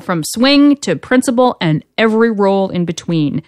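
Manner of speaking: usual speaking voice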